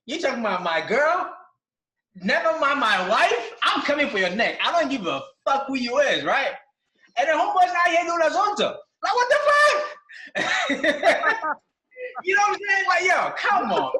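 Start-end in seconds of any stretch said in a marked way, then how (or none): 2.2-4.6 laughing threat. Real, not acted. Heated rant about disrespect. 7.2-13.9 much higher and louder, incredulous outburst; laughing outrage at a rival's diss; outraged disbelief. Real, not acted. Outraged rant over diss.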